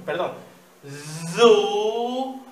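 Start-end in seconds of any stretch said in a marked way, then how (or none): 1.4-2.4 "Zu-en-de" split into slow syllables, louder and higher; "Zu-en-de" spelled out slowly. Shown as a demonstration. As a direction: sound out "Zu-en-de" one syllable at a time. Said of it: "lo decimos despacito".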